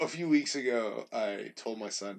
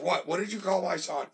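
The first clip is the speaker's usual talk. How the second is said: indignant mom; 7 semitones higher, 4 dB louder than usual. Retold or imitated. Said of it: "she's like".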